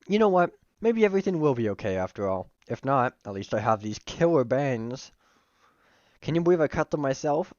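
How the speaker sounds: lightly voiced friend cheering up; Miriam. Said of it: "switch to my slightly higher pitched voice when I'm doing her".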